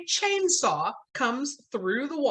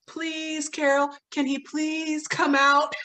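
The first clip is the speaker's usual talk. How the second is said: put-on high, pleading kid voice; mock pleading, pitched way up; childlike begging; 8 semitones higher, slower than usual. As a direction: whine like kids asking to play. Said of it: "they beg".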